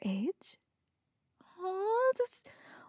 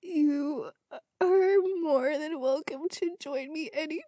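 tearful, breaking voice on "You are more than welcome"; crying while reading; 5 semitones higher than usual. Real, not acted. Reader crying as she reads the old man's invitation. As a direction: let the tears catch the words. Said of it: "I just fucking cried over that".

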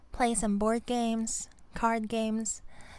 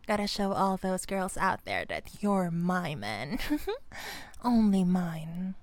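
lower, possessive purr with a chuckle; playfully possessive; 5 semitones lower than usual. Acted. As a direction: stake your claim, slowing at the end. Possessive girlfriend marking her man.

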